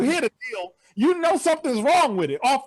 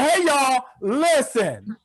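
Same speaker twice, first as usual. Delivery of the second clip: casual flight attendant call; much slower than usual. Retold or imitated. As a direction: drawl the call out lazily. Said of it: "she said".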